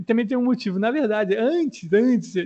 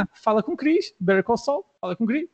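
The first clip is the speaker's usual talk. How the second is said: "fala com o Chris" and "Better Call Saul" on the same tune; matching intonation. Shown as a demonstration. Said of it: "A entonação é igual".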